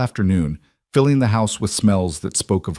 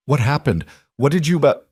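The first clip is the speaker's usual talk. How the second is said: raw voice; 6 semitones higher, 3 dB louder than usual. A narrator's reading. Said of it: "His voice came out raw".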